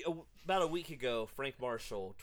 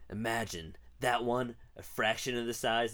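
Hoskins impression; 4 dB louder than usual. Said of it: "This is definitely not Hoskins' voice".

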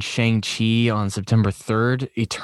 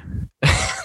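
laugh. Real, not acted. Chuckles at his own joke.

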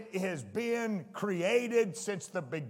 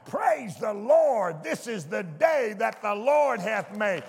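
shouted praise. Pretend. Preacher acting out his morning praise, shouting. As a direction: cry it out as you get out of bed. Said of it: "I'm crying".

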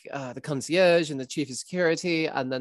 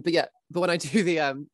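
ordinary delivery

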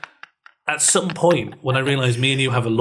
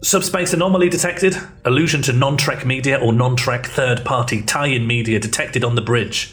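starship officer. Acted. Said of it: "Roleplay rejected".

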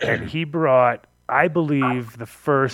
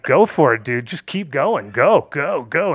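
louder, punchy retold urging; egging on; 2 semitones higher, 4 dB louder, slower than usual. Smoker daring the pushy host to continue, egging him on. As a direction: keep spurring him on in short bursts.

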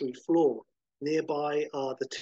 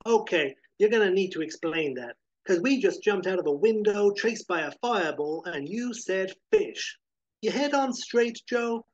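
put-on higher, incredulous young partner; disbelieving, pushing for answers; exasperated sidekick; 5 semitones higher than usual. Jimmy voiced by the GM.

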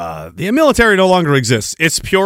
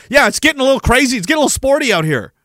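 quick casual quote; 7 semitones higher, much faster than usual. Retold or imitated. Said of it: "like June said".

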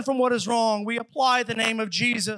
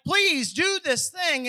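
mock begging; 5 semitones higher, slower than usual. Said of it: "begging them".

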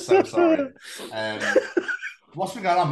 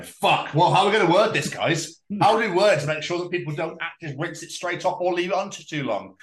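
lightly hammed-up panicked marketer, higher; mock marketing team; 5 semitones higher, 3 dB louder than usual. Shampoo makers arguing over instructions, mock-flustered. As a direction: fret over wording the label. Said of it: "They're probably there going".

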